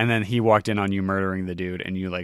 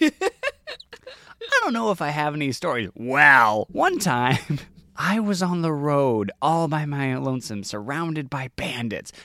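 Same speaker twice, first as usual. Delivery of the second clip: high, slow, scratchy storyteller voice; stable boy voice; 4 semitones higher, slower than usual. Acted. Stable boy starts his story for Mari. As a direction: spin a lonely road tale. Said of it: "stable boy begins a story".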